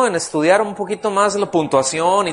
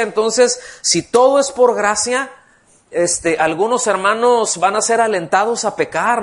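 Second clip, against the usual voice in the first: mock worried objector; 4 semitones higher than usual. Jewish-origin believers warn about grace, mildly mocking worry. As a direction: lightly voice the anxious objection. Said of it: "que ellos decían".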